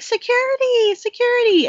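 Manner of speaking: high, loud call for security; shouting for help. Retold or imitated. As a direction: yell out for the guards. Abigail calling for guards.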